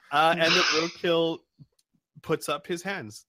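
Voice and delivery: ordinary talk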